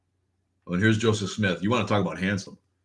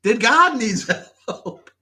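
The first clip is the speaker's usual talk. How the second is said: high, loud comic disbelief; hammed-up astonishment; incredulous outburst; 5 dB louder, slower than usual. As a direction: cry out the absurd question. Acted incredulous thought in a bit.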